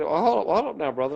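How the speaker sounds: half laughing, slowing him down; amused retold stall; laughing hold up. Stalling the detective.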